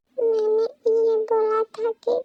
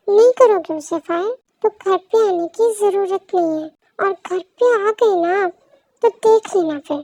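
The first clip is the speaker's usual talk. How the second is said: louder, threatening wife; angry threat; 4 dB louder than usual. Acted. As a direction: warn him he'll regret it.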